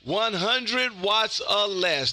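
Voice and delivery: slow, stretched CQ call over the air; drawn-out radio call. Real, not acted. Ham operator calling CQ, slow and stretched.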